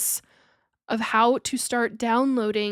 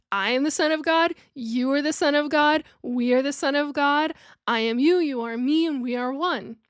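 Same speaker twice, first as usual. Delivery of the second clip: "I am the Son of God" raised and quickened; reciting the fuller teaching, higher and quicker; higher, faster quote; 3 semitones higher than usual. Retold or imitated. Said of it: "where Yeshua would have said".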